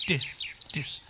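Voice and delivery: "This" with a short, lax i; low, relaxed "This", vowel not over-clear; mouth barely open. Shown as a demonstration. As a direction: say "This" softly through a slightly open mouth. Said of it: "ちょっと口あまり開きすぎない".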